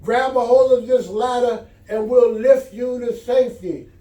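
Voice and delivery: loud, high call to a stranded neighbor; pilot calling out from above. Acted. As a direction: call down over the rotor noise. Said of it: "the pilot of the helicopter called out".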